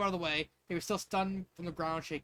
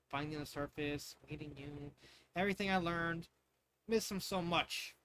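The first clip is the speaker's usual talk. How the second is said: a touch of crying held back; tearful; 5 dB quieter than usual. Acted. Princess missing her father, softly tearful. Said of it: "As Pearl sobbed".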